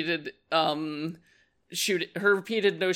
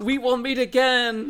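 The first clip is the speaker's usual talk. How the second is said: theatrical, high-pitched shouted yell; 7 semitones higher, 4 dB louder than usual. Recounting a scene to others, quoting a man who yells, retelling a yell. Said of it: "Schmidt even yells".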